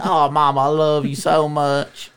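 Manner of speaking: put-on lingering, slow childlike affection; mock tender. Kid being held by mama, slow mock tenderness. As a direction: draw it out lovingly, hammed-up. Child melting in mom's arms.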